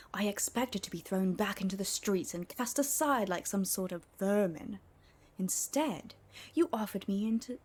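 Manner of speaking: hushed, dramatic storyteller's reading with breathy whispered stretches; dramatic noob-born voice. Acted. Streamer reading the book's dedication to chat in a dramatic whispery voice. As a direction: read the dedication like a grand, secret confession. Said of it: "in my dramatic noob-born voice".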